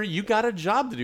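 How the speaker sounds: high, insistent mock command; retold boss's order. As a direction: act out a boss ordering an employee. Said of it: "He's telling her".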